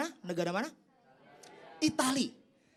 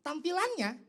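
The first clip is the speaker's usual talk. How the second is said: exaggerated insistence; 11 semitones higher than usual. Comic insistence rendang ugly.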